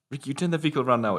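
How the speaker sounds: high, fast commanding officer voice; stern order. Retold or imitated. Quoting the officer ordering Ricky, high and fast. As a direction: bark it at Ricky like a cop. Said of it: "she goes".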